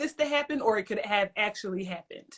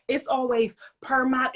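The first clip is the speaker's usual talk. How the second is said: slow imitation of someone's email attitude; mock email voice. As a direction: lightly mimic a sassy email, drawing it out. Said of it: "Why are you doing your neck and hands like that".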